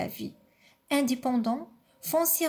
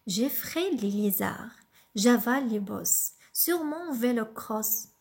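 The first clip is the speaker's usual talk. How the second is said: poem reading. Acted. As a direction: recite it gently, pausing after each line. Lit le poème vélo cross. (lecture douce et posée d'un poème)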